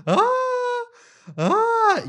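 high-pitched cartoon wail; mock crying wail. Host imitates shrimp forced to watch ASMR, mock crying wail. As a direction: wail high and loud like a tiny creature crying. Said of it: "el bicho llorando".

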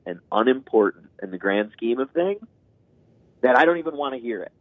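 dismissive parent. Retold or imitated. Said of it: "my negation was always".

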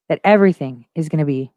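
ordinary talk

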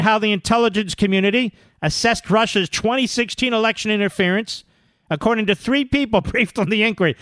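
measured, projected article reading; news read. Real, not acted. Radio host reading breaking story aloud, emphatic news read. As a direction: read it out point by point.

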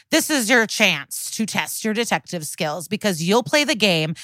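lively game promo read. Acted. Podcast ad read.

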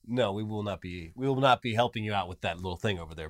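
mock-diplomatic no, pitched low; polite refusal. Voices France declining the invasion.

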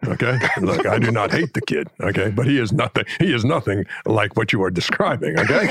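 imitation of an exasperated coach objecting; plead, then spell it out in firm chunks; mock-indignant analyst with tagged okays; Hubie Brown. Shown as a demonstration. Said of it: "you'd be go".

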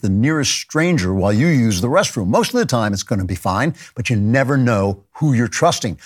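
ad read. Acted. Host reads sponsor ad.

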